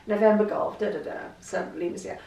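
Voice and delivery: crisp, official radio call-sign delivery; police inspector. Retold or imitated. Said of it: "You sound like a police inspector".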